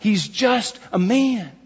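"just a man" slow and weighted; emphatic. Shown as a demonstration. Preacher explaining the number to the congregation, emphatic. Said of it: "being emphatic".

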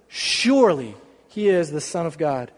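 low, tear-thick repeat; preacher moved near tears retelling the crucifixion; choked up. Real, not acted. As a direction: hold back tears on it. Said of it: "I'm not crying".

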